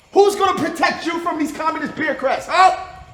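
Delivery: jab the question at him; taunting shout. Acted. Interrogator taunting the prisoner.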